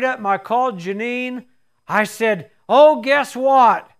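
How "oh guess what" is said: loud, slow, eager teaser; can barely hold the secret in; bursting with news. Retold or imitated. Husband calling his wife with news, bursting.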